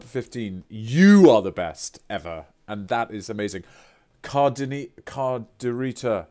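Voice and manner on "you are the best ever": enthusiastic thanks. Real, not acted. Thanking a subscriber.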